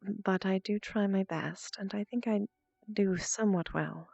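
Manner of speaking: put-on calm, seductive posh English accent; Shantara posh English accent. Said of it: "I'm going to go ahead and just speak in it naturally".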